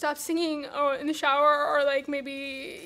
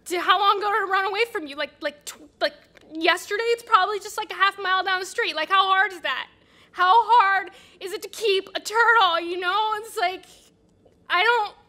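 fast, louder needling questions; mean, exasperated; 3 semitones higher, 5 dB louder than usual. Acted. Annie mocking Josh about his lost turtle, scornful. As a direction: badger him with scornful disbelief. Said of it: "I'm being so mean to you right now".

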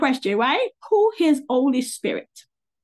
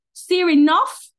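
higher, sharp command; scolding the assistant; 6 semitones higher, 5 dB louder than usual. Real, not acted. Speaker telling Siri to stop interrupting, scolding. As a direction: cut the assistant off firmly.

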